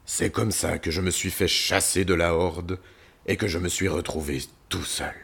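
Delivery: lightly voiced lion storyteller; brooding lion. Lion tells visitors of his exile, brooding. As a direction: recount old grievances, swelling on the anger.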